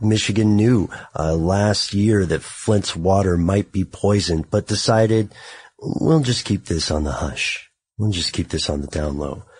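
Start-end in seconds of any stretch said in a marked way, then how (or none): 5.8-9.4 late-night quiet-storm radio DJ style voice. Speaker explains a cover-up and slips into a quiet storm voice. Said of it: "You like how I'm going into my quiet storm voice?".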